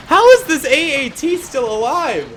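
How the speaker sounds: high-pitched disbelief; incredulous surprise. Real, not acted. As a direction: ask it high, in amazed disbelief. Amazed that the vehicle survives.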